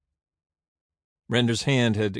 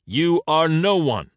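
scornful dismissal; 7 semitones higher, 7 dB louder than usual. A narrator's reading. Render scornfully dismisses Caesar.

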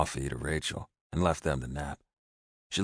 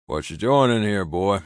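put-on suspicious old ranch hand; 4 semitones higher, 8 dB louder than usual. A narrator's reading. Ranch hand challenges him.

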